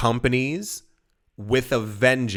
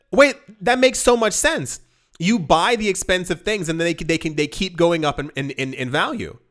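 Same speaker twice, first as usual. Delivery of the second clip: much higher, eager "Wait, that makes so much sense"; light up as it clicks; excited realization; 5 semitones higher than usual. Retold or imitated. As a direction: relative suddenly getting it, thrilled, then fading. Relative's realization retold.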